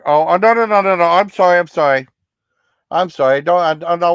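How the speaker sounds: quick rising oh no, no, no, then sorry; flustered apology. Real, not acted. Streamer apologizing to a viewer he upset, flustered. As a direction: backpedal fast, caught off guard.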